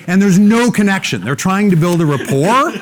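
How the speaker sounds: laughing loudly, pitch way up. Real, not acted. Speaker laughing at the bad salesman to the audience. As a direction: laugh through the point.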